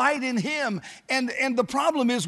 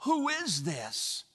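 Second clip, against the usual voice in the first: slow, hushed amazement; puzzled wonder; 9 dB quieter, much slower than usual. Acted. The world looks at the united church, wondering aloud. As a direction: draw it out softly, as if marvelling. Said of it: "the world looks at that and says".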